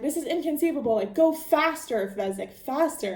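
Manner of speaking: a hint of panic in the Sicilian's voice; mock freaking out. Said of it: "the Sicilian is freaking out".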